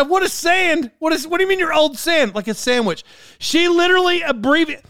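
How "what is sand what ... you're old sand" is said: incredulous question. Retold or imitated. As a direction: ask like it makes no sense at all. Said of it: "I said".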